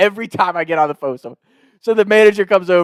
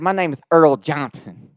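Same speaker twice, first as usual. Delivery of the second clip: slow Southern twang; Earl Johnson. Retold or imitated. Prank caller gives a fake name, Southern twang. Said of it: "this Southern twang".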